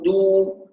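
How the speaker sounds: "دو" as a long pure "duu"; rounded damma. Shown as a demonstration. Teacher shows the lip rounding, دو with a full u. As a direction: push the lips forward for "دو". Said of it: "ضم الشفتين أهو".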